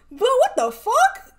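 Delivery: high laughing what the fuck; laughing disbelief. Real, not acted. Reacting to viewers about the hierarchy, laughing in disbelief.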